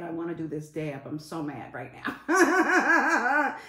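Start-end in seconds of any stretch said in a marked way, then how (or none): 1.1-3.6 high, loud, drawn-out complaint breaking into laughter; comic mad whine. Real, not acted. Streamer mad about wanting the dab, laughing drawn-out whine. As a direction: stretch it out in laughing exasperation. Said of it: "I'm mad".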